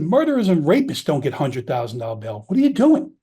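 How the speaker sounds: climbs into an outraged question at the end; emotional retold rant that peaks at its end; retold angry outburst. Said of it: "I get emotional about this".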